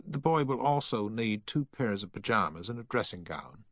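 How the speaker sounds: a touch of the formal shop assistant; officious shop assistant. Acted.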